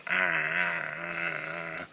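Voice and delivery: low, drawn-out mock baby "aah"; imitated baby cry. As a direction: imitate a baby with one long, soft, steady wail. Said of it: "like a baby".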